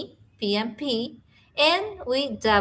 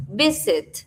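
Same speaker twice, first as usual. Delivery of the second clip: "Visit" with the force on VIS; "Visit" as VIS-it, sounded out for learners; stress on first syllable. Shown as a demonstration. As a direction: lean on the start of "Visit", then fall. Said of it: "la fuerza se hace en la primera".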